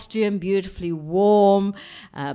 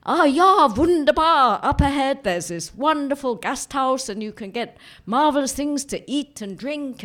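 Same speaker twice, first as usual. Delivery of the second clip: higher, delighted Austrian holidaymaker; gushing German skiers; 6 semitones higher than usual. Retold or imitated. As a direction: gush like a cheery German skier.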